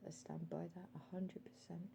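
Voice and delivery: drops to a whisper on his conviction. Real, not acted. Quietly affirming that he stands by what he said, whispered. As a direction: breathe it out, no voice.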